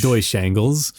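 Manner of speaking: Deutsch said the German way, like "doytsh"; German pronunciation. Shown as a demonstration. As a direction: relish the German word Deutsch. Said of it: "it sounds more fun when you see Deutsch".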